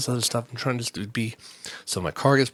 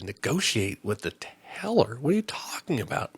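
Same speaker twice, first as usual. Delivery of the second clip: incredulous; 4 dB quieter than usual. Retold or imitated. Incredulous retort to bank agent.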